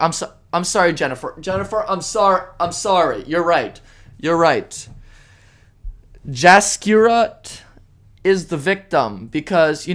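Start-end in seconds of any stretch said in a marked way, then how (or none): 0.0-4.9 sarcastic, fake-contrite sorry; mock apology. Ranter mockingly apologizing to an imagined critic, sarcastic. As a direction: pretend to back down, plainly not meaning it.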